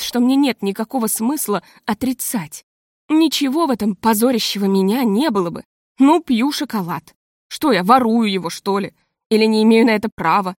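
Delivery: usual speaking voice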